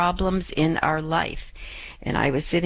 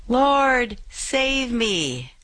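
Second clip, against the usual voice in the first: cry for help; 6 semitones higher, much slower than usual. Acted. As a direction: call out like a sinking man. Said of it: "and he cried out".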